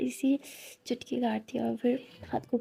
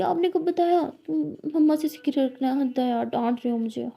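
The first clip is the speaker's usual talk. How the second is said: sulky; 5 dB louder than usual. Acted. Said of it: "लिली बोलती".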